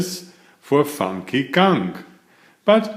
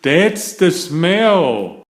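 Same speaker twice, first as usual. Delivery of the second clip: gasping; 5 semitones higher, 4 dB louder, slower than usual. Acted. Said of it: "Pete gasps".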